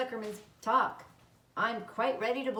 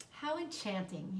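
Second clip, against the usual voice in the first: soft, slow and dreamy, eyes closed; dreamy musing; 5 dB quieter than usual. Acted. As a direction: savour it quietly like a pleasant thought. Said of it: "he said (leaned back, closed his eyes)".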